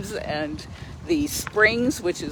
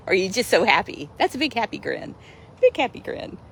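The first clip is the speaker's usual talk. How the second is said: pet talk; 4 semitones higher than usual. Real, not acted. Cooing to her cat Kali.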